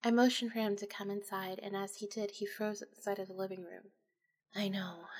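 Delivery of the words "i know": soft, resigned admission; said quietly. A narrator's reading. Widow quietly admitting the mess to Jeff, softly. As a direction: barely voice it, expecting judgment. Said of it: "I said quietly".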